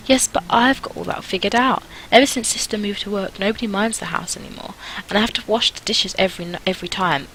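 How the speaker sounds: a hint of an eager little girl; lightly voiced earnest girl.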